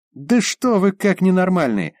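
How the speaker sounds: high, loud outburst; fly off in a high, loud outburst; shrill outburst. Acted. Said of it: "взвился высокий Лизин голос".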